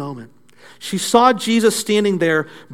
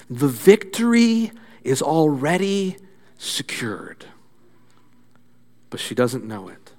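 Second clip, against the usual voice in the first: hushed; 4 semitones lower, 4 dB quieter than usual. Acted. Preacher drops to hushed aside.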